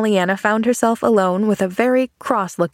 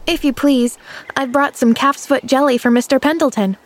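smiling; 6 semitones higher than usual. A narrator's reading. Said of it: "smiled Pollyanna".

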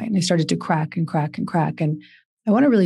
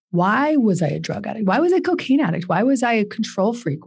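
rising anguished questions; 5 semitones higher than usual. Real, not acted.

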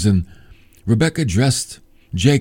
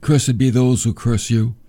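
solemn blessing; 3 semitones lower than usual. Acted. Reads out Isaac's blessing.

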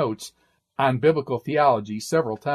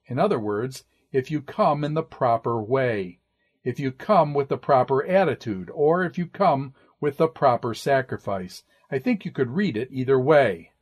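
ordinary delivery

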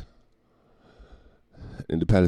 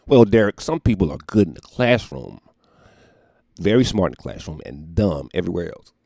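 mock reply; 6 dB louder than usual. Voicing another person's reply.

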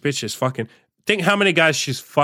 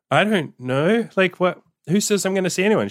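higher-pitched, defensive comeback; imitating a defensive reply, pitched up; 8 semitones higher than usual. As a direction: retell it as a cornered, indignant protest. Retold interrogation, defensive replies.

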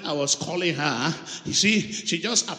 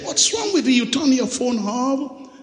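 mock scolding; 4 semitones higher, 3 dB louder than usual. Scolding the woman on phone.

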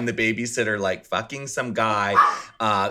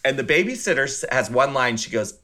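usual speaking voice

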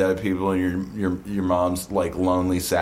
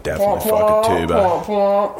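high squeaky voice; 10 semitones higher, 3 dB louder than usual. Acted. Improvised character voice, pitch jump.

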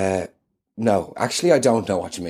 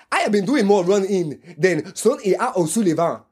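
intense, higher action-hero growl; Jason Bourne voice; 6 semitones higher than usual. Acted. Guest insisting he is Jason Bourne, intense action-hero voice. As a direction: play the brooding spy, dead serious. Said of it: "Matt, rein it".

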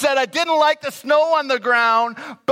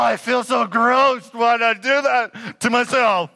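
a hint of complaining. Preacher imitates a diner griping about the food, mild mock whine. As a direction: moan about dinner half-seriously. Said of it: "We complain, complain, complain".

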